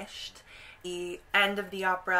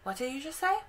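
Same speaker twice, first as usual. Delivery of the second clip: higher, sharp suspicious question; suspicious witch; 7 semitones higher, faster than usual. Retold or imitated. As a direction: catch her in the act, higher. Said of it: "the witch turns around and goes".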